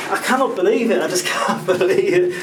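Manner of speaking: giggling at his own bad luck; laughing disbelief. Real, not acted. To Gary about his ripped new trousers, laughing in disbelief. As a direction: laugh through the words, half exasperated. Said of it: "I don't know why I'm laughing".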